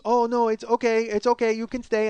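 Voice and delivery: mock reassuring sales pitch; coaxing parlor woman. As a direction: coax the customer to stay, in imitation. Imitating woman coaxing him to stay.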